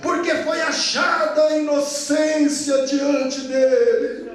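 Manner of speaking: confident proclamation with rising shout; Daniel's firm voice; firm strong voice. Acted. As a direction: declare innocence boldly. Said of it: "aquela voz firme, forte".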